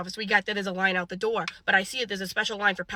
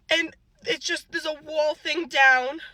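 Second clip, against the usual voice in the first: tearful; 3 semitones higher, slower than usual. Real, not acted. Finds the pharmacy closed.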